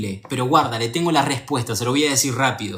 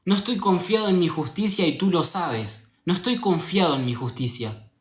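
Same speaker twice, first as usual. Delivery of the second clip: retold earnest prayer; 2 semitones higher than usual. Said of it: "le pedí a Dios y le dije".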